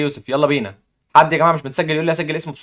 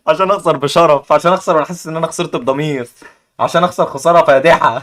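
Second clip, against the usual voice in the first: mock grandiose; 2 semitones higher, 5 dB louder than usual. Jokes about losing with honour.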